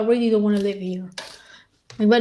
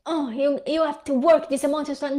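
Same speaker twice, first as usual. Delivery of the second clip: mocking high voice; 4 semitones higher than usual. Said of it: "mocking average people".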